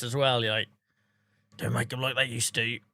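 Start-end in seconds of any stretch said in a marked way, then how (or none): 1.6-2.8 a hint of a gruff, horrible old seller, low and soft. Streamer imitating a grumpy car boot seller, mild gruff voice. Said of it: "say that in a really gruff, horrible voice".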